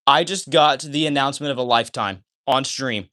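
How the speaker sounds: ordinary talk, nothing marked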